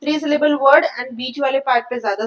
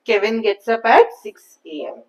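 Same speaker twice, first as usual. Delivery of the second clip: slow model answer. Shown as a demonstration. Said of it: "full sentence answer चाहिए मुझे".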